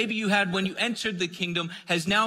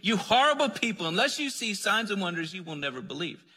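harsh condemning; 3 semitones higher than usual. Retold or imitated. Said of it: "trying to condemn these people".

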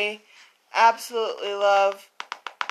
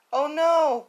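alarmed buzzing bees; 6 semitones higher than usual. A narrator's reading. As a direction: cry out in mild alarm. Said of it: "buzzed the bees".

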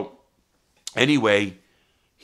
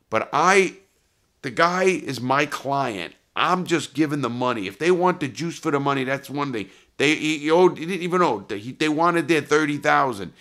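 higher, raised-voice self-defence; insistent protest; 7 semitones higher, 5 dB louder than usual. Retold or imitated. Money lender justifying himself to his New York boss, insistent protest. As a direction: plead your case emphatically, pitch held up.

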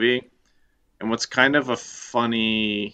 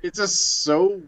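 laughing; 10 semitones higher, 4 dB louder, much slower than usual. Real, not acted. Laughing at the silly line.

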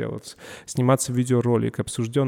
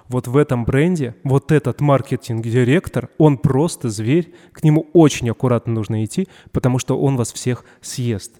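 mock scary rumor; 5 dB louder than usual. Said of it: "всегда ходят такие слухи".

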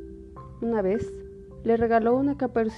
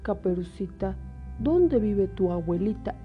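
put-on a trusting child giving directions; little girl voice; 3 semitones higher than usual. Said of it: "dijo Caperucita". (voz de niña inocente)

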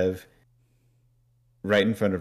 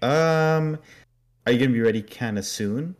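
super pushy; 6 semitones higher, 4 dB louder than usual. Retold or imitated. Bev hurrying the priest along, mock pushy. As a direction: butt in high and impatient. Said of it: "she's being super pushy".

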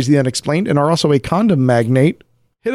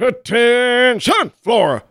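high, shouting drill sergeant; 10 semitones higher than usual. Acted. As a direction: bark orders at the troops.

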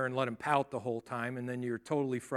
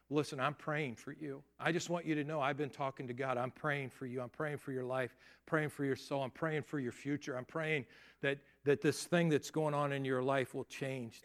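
tender reassurance; 5 dB quieter than usual. Acted. Praying over a suicidal friend.

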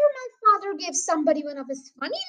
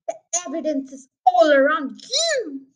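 loud, exasperated retort; shouted; 7 dB louder than usual. A narrator's reading. Mister Hazel answers the sergeant about evidence, shouted impatiently. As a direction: hammer it out impatiently. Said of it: "shouted Mister Hazel".

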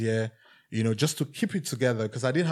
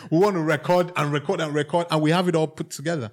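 lightly voiced Irish engineer, laughing, getting higher and louder at the end; a hint of an Irish studio engineer telling him to chill, laughing; 6 semitones higher, 6 dB louder than usual. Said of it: "He said".

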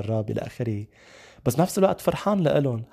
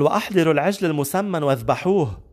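a mildly elated, raised-voice order; joyful command; 4 semitones higher, 4 dB louder than usual. Acted. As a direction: proclaim the father's order, higher pitched. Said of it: "بفرح قال لهم".

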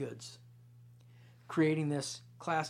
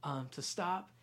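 lightly voiced little girl tattling; a hint of a small child complaining to her parents; mommy and daddy, she's tattling; child's tattling voice. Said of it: "she would say this".

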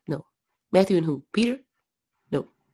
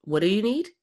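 higher, questioning lilt on each phrase; parent soothing whiner; 4 semitones higher than usual. Acted. Parent to a whining kid, lightly voiced soothing. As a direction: coax a whining kid, lightly acted, voice lifting at the ends. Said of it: "they're whining, and he's like".

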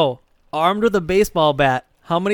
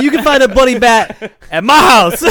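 louder, higher quoting voice; acted quote; 5 semitones higher, 5 dB louder than usual. Imitating a guy for laughs, mock boast. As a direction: put on a mock boast, pitched up. Acting out friend's catchphrase quote.

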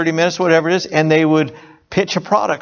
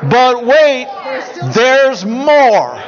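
loud, high infomercial announcer shout; infomercial pitchman; 5 semitones higher, 3 dB louder, much slower than usual. Retold or imitated. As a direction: belt it like a TV pitchman. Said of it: "That's what they'd say".

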